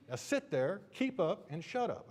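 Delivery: high, loud mock commands; scolding cop orders. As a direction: shout orders like a fed-up trooper. Imitated officer orders driver to hush.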